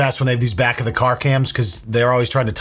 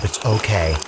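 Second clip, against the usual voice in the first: condescending sweet voice. Retold or imitated. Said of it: "poor officer having to arrest".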